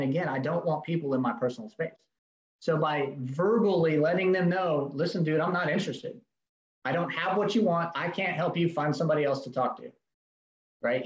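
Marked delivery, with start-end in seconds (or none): 4.9-9.9 forceful, not rude. Shown as a demonstration. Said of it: "In a very forceful, not rude, not belligerent".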